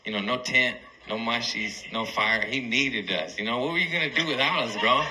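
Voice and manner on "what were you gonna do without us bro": quick, higher, laughing question; fast giggly mock jab. Real, not acted. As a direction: tease the buddy through a laugh.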